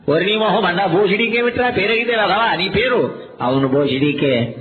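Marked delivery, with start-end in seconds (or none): 3.4-4.5 put-on slow dopey kid. Dim kid answers name.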